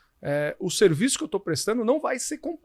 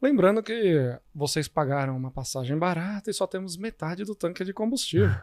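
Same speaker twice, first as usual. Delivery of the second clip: over the intercom. Retold or imitated. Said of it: "e o comandante faz assim".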